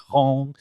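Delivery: "hon" as a throaty French vowel; French guttural sound. Shown as a demonstration. Man showing French sounds English lacks, guttural "hon". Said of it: "the guttural sounds that the French".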